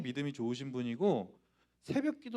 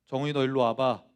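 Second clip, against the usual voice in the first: imitating an ominously stern mother, louder; stern summons; 3 semitones lower, 6 dB louder than usual. Mother calls her son over that evening, sternly. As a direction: summon the child with controlled anger. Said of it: "목소리가 평소와 다르셨어요".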